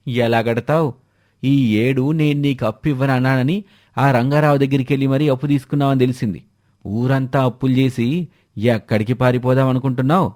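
harsh moneylender. Acted. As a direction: demand the debt with mild contempt. Moneylender berates debtor.

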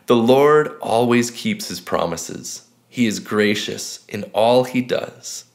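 slow, measured reading with long pauses between verses; slow scripture reading. Acted. Pastor reads a psalm slowly to viewers for meditation, unhurried. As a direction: read each verse slowly and let it sink in. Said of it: "I'm gonna read it three times slowly".

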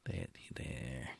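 low, unvoiced there, there; mock consoling. Real, not acted. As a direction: pat it on the head, sarcastically. Mock comfort after failed attack.

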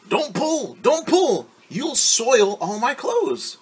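high, whiny protest, slowing on the last line; a prissy girl shrieking about her clothes; fussy refusal. Acted. Ari refuses her friends' help.

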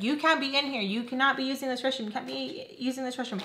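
high-pitched mock telling-off; acted scolding. Stranger outside orders user out of restroom, mock scolding. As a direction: scold someone through a door.

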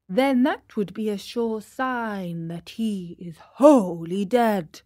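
politely disagree like a learned owl; owl doctor. Acted. Owl contradicting the crow, lightly voiced and polite.

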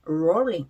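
"rolling" as a teacher's model of the R sound; R pronunciation demo. Shown as a demonstration. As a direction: stress the English R at the start of "rolling". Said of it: "R 발음이죠". ("rolling"의 R 발음을 또렷하게 시범)

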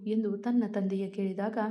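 ordinary delivery, nothing marked

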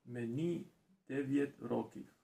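"Мені дев'ять років" repeated with an English accent; English accent Ukrainian. Real, not acted. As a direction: learner copies the teacher. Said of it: "So, read, please".

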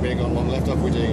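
loud call. Real, not acted. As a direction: call it out loudly.

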